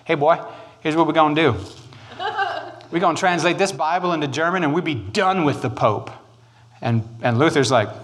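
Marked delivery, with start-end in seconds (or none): 0.0-6.1 lightly put-on thick German accent as a prince; a hint of a gruff German prince's accent; mild mock German accent. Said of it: "this is a very thick German accent".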